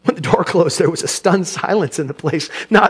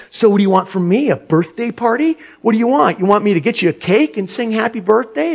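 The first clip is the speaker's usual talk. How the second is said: nasty tone; 3 semitones higher than usual. Acted. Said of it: "responded in a nasty tone".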